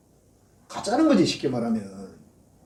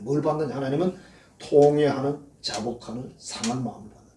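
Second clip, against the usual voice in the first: ordinary delivery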